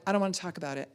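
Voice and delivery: lightly voiced sulky teenager; sulky fourteen-year-old. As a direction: shut the talk down like a sulking teen. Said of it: "It's about fourteen".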